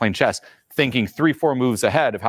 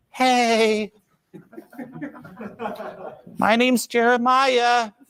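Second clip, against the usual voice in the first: stifled, very high, strained, squeezed-out voice; 12 semitones higher than usual. Describing how socially stifled people sound, imitating a stifled, strained voice. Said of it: "a little string of shit going like".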